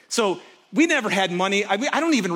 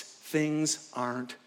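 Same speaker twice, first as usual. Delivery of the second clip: quiet inner complaint; 8 semitones lower, 10 dB quieter, much slower than usual. Retold or imitated. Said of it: "His internal issue was".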